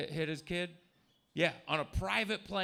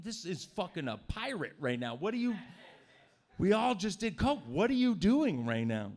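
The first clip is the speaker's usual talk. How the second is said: mock outraged rant; 3 semitones higher than usual. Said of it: "I'd be like".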